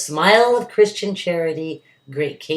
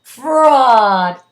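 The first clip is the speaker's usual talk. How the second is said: high, loud furious cry; angry crowd shout; 8 semitones higher, 12 dB louder than usual. A narrator's reading. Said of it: "cried the maddened thousands".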